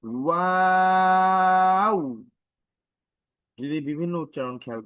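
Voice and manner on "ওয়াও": ওয়াও with a rounded w and very long, high, steady aa; rounded lips, not closed. Shown as a demonstration. Teacher shows the correct letter, lips rounded. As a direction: hold ওয়াও evenly, gliding to oo without closing the lips. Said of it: "আমি ঠোঁট গোল করেছি".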